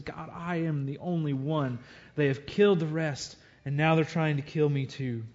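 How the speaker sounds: understated despair, a lonely man pleading with God; despairing plea. Acted. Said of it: "you can feel the despair and the hopelessness in his voice".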